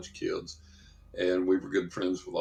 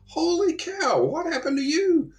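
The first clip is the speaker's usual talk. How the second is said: high-pitched mock astonishment on "Holy cow"; amazed bus driver; 4 dB louder than usual. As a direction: play the stunned bus driver, pitch flying up.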